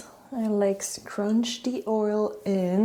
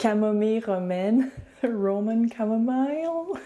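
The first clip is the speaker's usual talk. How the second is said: French accent; 3 semitones higher than usual. Real, not acted. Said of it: "French accent".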